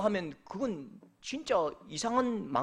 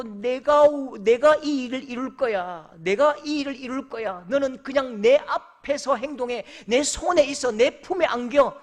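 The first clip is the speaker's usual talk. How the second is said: louder, emphatic divine promise; God's voice, preaching; 3 semitones higher, 6 dB louder than usual. Acted. Preacher voices God promising Abraham, louder, emphatic. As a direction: proclaim it with full force.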